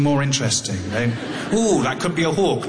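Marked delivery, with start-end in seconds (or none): 1.5-2.7 mock-excited, rising "ooh"; a hint of eager wonder, raised a little; hopeful birdwatcher. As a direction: act out spotting something special. Mimics hopeful birdwatcher spotting bird.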